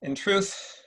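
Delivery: supercilious Marcus Aurelius. Acted. Emperor greets Septimius at court, lightly supercilious. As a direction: play it like a British actor's Roman emperor. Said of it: "a slightly supercilious Marcus Aurelius".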